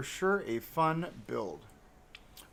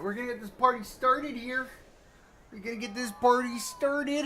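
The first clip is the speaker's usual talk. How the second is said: higher and louder, hyped-up party call; hype party call; 10 semitones higher, 5 dB louder than usual. Acted. Streamer hyping viewers at start of stream, higher and louder excited call. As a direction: kick off the stream like an announcer.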